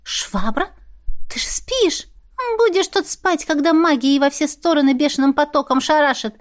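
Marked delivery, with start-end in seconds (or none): 1.3-6.3 high, perky magical creature; high sassy familiar voice; Larin's voice. Acted. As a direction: pitch it up for the cheeky little familiar. Larin the mop speaks.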